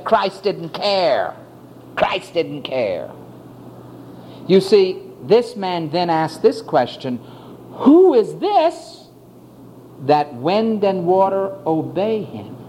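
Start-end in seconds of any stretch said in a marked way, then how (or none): 0.0-3.1 bitter complaint. Retold or imitated. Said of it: "bitterness and saying". 7.7-12.5 awed question. Acted. Bitter man's terrified question.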